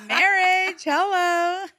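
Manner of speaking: high, loud, drawn-out "hello"; teasing exclamation. Real, not acted. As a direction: pipe up high as if it's obvious. Teasing her friend about marriage.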